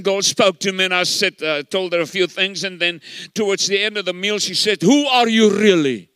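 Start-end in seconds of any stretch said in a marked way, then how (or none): 4.8-6.1 louder, imitated demand; mock insistent questioning; insistent retold question. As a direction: act out her pressing for an answer. Retold woman demanding his identity.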